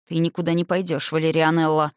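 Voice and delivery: a man forbids the heroine to leave, low and domineering; low and commanding. Acted. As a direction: lay down the law calmly, owning the room. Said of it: "низко и властно проговорил он".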